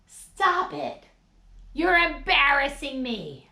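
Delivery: high, loud scolding; mock mortified kid; embarrassed child. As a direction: hiss at Dad to quit. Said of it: "looks at the people and goes".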